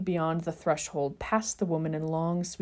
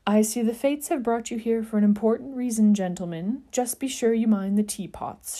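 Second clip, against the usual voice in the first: higher, louder, mysterious seer warning; ominous warning; 4 semitones higher, 4 dB louder than usual. Acted. Seer warning the boys about the teapots, ominous. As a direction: warn them darkly, like a prophecy. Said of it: "she warned ominously".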